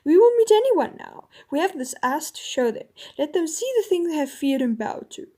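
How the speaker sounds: rally them at full voice; out loud. Acted. King exultant after hours of whispering, loud and rousing. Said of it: "this time not in a whisper".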